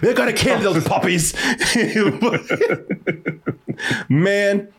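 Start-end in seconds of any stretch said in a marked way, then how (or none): 0.0-1.3 laughing bad British accent; playful British send-up; mock British accent. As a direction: ham it up as a British villain.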